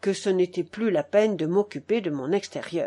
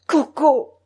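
less sharp call, still raised; softened, almost tender; 5 semitones higher, 8 dB louder than usual. A narrator's reading. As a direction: call the pet name with some tenderness. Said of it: "d'une voix adoucie et presque tendre".

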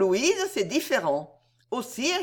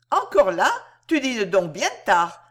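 surprised countess; 4 dB louder than usual. Acted. Mother surprised to find her.

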